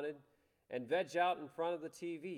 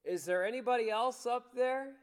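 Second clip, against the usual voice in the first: doubtful punchline; 9 semitones higher, 6 dB louder than usual. Retold or imitated. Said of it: "he says".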